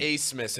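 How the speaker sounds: Acemas said as "ACE-mas"; name said ACE-mas. Shown as a demonstration. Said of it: "How do you pronounce".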